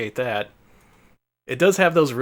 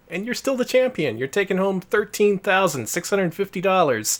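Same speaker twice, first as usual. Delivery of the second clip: booming prize announcer; 7 semitones higher than usual. Pretend. Mock host prize announcement.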